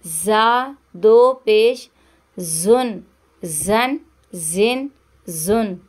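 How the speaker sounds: जा with a clear whistling hiss on the z, slow and drawn; whistled z sound for a Quran reading class. Shown as a demonstration. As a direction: let the z whistle in जा दो ज़बर. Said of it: "इसमें सीटी की आवाज़ आएगी".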